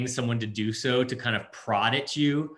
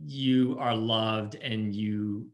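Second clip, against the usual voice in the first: speaking love; much slower than usual. Real, not acted. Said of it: "just speak love to you".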